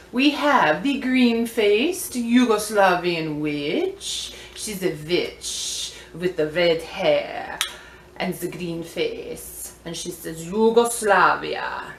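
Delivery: slow, drawn-out Yugoslavian witch voice; put-on Yugoslavian accent. Vlogger introduces a vintage witch toy, mock Yugoslavian accent. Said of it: "there are voices that live inside my mouth".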